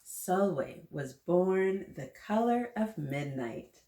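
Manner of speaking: slow, deliberate storybook reading; story reading. Acted. Librarian reading to kids, slow storybook voice. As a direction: read the opening line slowly to the children. Reads picture book aloud.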